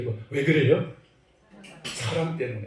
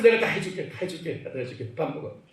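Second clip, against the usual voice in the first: softer and softer, imitating a pleading parent; coaxing parent, fading; 4 dB quieter than usual. Parent begging hungry child to eat, pleading and fading. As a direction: coax the child, voice dropping to almost nothing.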